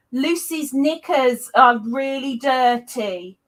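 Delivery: lightly acted solemn reveal; garbled message delivered. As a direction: draw out the message deliberately, word by word. Acts garbled end of whisper game.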